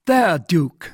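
the relieved king greets his minister; delighted king. Acted. King speaks to cardinal.

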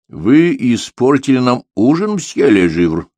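menacing. A narrator's reading. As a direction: warn him darkly, weighing each word. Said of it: "грозно сказал он".

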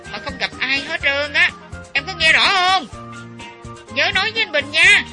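high, loud phone voice. A narrator's reading. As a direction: call out over a bad line. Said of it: "lấy giọng trước khi phải la lên".

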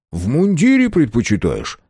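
light up at the idea; pleased, playful question; delighted. A narrator's reading. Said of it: "обрадовался Андрей".

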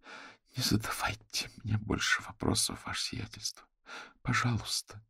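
soft, breathed plea; whispered plea to his excellency; pleading. A narrator's reading. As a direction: beg him to stop asking. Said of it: "В голосе послышалась мольба".

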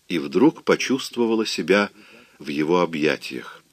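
ordinary delivery, nothing marked

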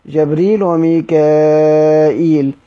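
جبريل وميكائيل read slowly, جبريل stressed; slow recitation of جبريل وميكائيل; reading demo. Shown as a demonstration. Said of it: "بزي لوحده يقرأ".

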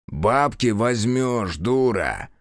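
lightly voiced rasping stranger, slow; a mocking unseen voice; hoarse cracked baritone. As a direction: amulet voice taunting Sonka, hoarse. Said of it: "хриплый, натреснутый баритон".

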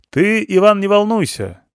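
loud, high reassurance. Acted. Rescuer to blinded Ivan, loudly reassuring. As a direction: say it loud as if he were deaf. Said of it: "стали разговаривать громче".

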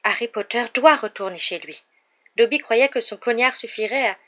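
sudden urgent exclamation; sudden cry. A narrator's reading. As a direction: blurt it out urgently. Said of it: "s'écria soudain".

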